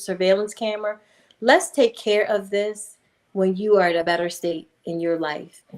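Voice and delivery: calm her down gently; a low reassuring voice to a distraught mother; calm reassurance. Retold or imitated. Calming upset woman.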